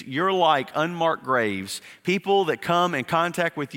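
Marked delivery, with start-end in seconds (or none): 0.0-1.8 slow, weighty, each word set down; slow emphatic quote. Shown as a demonstration. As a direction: lean on it and slow right down. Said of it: "And he says to the Pharisees".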